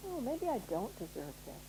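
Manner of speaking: softly voiced self-doubt, slightly drawn back; self-doubting inner voice. Inner voice talking to its owner, softly doubtful. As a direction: give in quietly to doubt. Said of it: "when that voice says".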